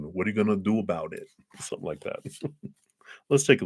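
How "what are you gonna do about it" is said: put-on fast, quiet New York accent; quick tough-guy New York accent. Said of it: "desire to do a New York accent or something".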